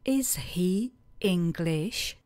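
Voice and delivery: breathy whispered question to repeat; slow whisper. Shown as a demonstration. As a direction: whisper "Is he English?" slowly, rising. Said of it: "Zeptejte se". (šeptem pomalu „Is he English?“)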